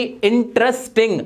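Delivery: इंटरेस्टिंग in distinct syllables, "in-tres-ting"; several separate sounds. Shown as a demonstration. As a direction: mark each syllable of इंटरेस्टिंग. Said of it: "दो या दो से ज्यादा आवाजें". (इंटरेस्टिंग अलग-अलग आवाज़ों में)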